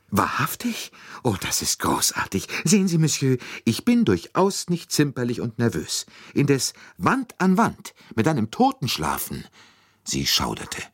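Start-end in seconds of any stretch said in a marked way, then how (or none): 0.1-9.4 high-pitched lady, delighted then dramatic; gush, then protest you are not squeamish; effusive lady passenger. A narrator's reading. Lady passenger thanking a monsieur for a new carriage, effusive.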